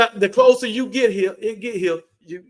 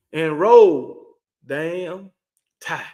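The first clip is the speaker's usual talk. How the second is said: team cheer; 6 dB louder, much slower than usual. Real, not acted. Sign-off cheer for his team.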